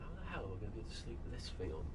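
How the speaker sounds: far off. Real, not acted. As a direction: speak fast from well away from the mic. Talks while away from mic.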